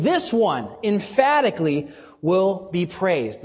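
"this one" punched, slow deliberate phrase; emphatic weight on "this one", measured pace; stress on this one. Shown as a demonstration. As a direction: hit "this one" hard and spell it out slowly. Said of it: "The pronoun she there is emphatic".

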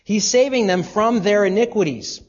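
ordinary talk, nothing marked

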